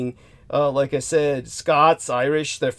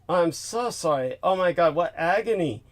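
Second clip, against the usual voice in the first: softer, sincere dismay; hushed sympathy; 5 dB quieter than usual. Real, not acted. Host consoling guest after three burn unit visits, sympathetic. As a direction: drop the volume and commiserate sincerely.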